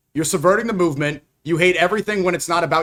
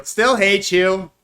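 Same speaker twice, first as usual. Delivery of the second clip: drawn-out slow mocking repeat; slow mocking echo; 2 semitones higher, much slower than usual. Streamer echoing a rival's clip again, slow and mocking. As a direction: stretch every word out to mock him.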